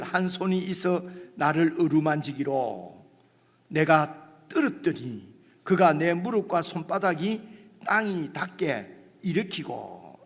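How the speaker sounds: slow, measured reading of the verse; scripture reading. Acted. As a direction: read the Bible passage deliberately. Reads scripture slowly. (천천히 성경 낭독)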